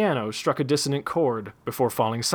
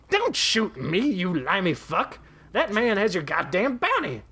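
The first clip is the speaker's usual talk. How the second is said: panicked shout; 7 semitones higher than usual. A narrator's reading. Daggett pleading, enraged.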